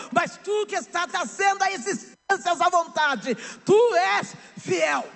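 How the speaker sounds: rising preacher's cry, sung in places; pregação inflamada. Acted. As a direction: build to a shouted climax of faith. Preaching God's promise. (pregação em alto brado, quase cantada)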